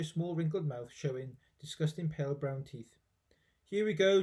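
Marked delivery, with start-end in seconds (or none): 3.6-4.2 loud, high eager cry; lightly hammed-up excited cry. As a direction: George eagerly giving grandma her medicine. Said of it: "George cried out".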